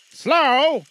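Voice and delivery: high, loud, slow ghost voice; unearthly voice. Acted. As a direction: drag each word like a chain. Ghost repeats.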